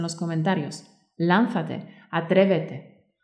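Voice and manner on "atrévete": ordinary delivery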